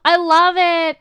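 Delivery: gasp, then gush slowly. Real, not acted. Streamer in love with an avatar's hair, gushing.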